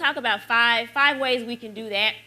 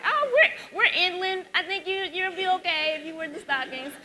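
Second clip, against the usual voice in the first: friend's voice; 9 semitones higher than usual. Retold or imitated. Friend's reply voiced in story.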